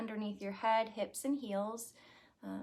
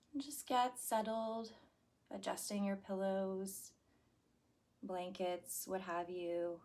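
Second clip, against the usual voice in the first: guided meditation. Acted. Yoga teacher settling class before relaxation, guided meditation. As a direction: settle listeners down with unhurried, spaced-out instructions.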